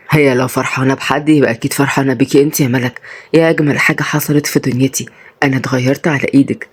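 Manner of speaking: low, understated affection; tender husband. Acted. Husband answering tenderly, figure of the story.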